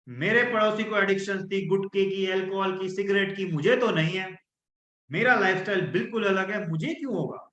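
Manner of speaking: self-assured, dismissive reasoning; confident tone. Shown as a demonstration. Coach demonstrating confident self-talk to class, assured. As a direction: sure nothing will happen to you. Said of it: "तो मेरी tone change हो रही है".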